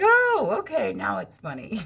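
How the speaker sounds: high jump on oh, then flat; sudden realisation. Retold or imitated. Sister finally getting the joke, high surprised oh. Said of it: "she's like".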